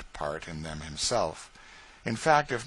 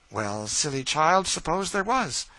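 mistress's voice; 7 semitones higher, 6 dB louder than usual. Acted. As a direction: brush off the girl's fear. Mistress dismisses the fear.

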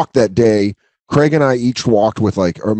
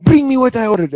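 much higher mock voice of a fed-up customer; shrill demand; 12 semitones higher than usual. Woman finally demanding her drink, high mock indignation. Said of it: "And finally she goes".

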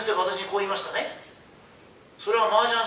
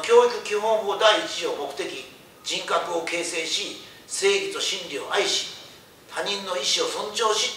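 slow formal recitation; much slower than usual. Acted. Lecturer quoting the education law to students, very slow and solemn. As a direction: read the statute out very slowly, each clause weighed.

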